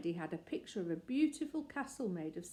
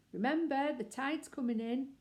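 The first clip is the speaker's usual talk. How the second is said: raised warning call; calling after them; 6 semitones higher, 3 dB louder than usual. Acted. Mrs Brown warns the children about the tide, raised call. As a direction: warn the children as they go. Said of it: "called Missus Brown".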